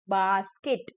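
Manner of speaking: बास्केट parted as bas, ket; broken into syllables. Shown as a demonstration. Teacher breaking a word for children, syllable-by-syllable बास्केट. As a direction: give बास्केट two separate beats. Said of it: "break करके बोला गया है".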